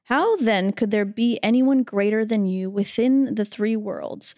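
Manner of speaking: measured verse reading with pauses; scripture reading. Acted. Reading Arjuna's verse to fellow hosts, reverent recitation. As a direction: read it out phrase by phrase, reverently.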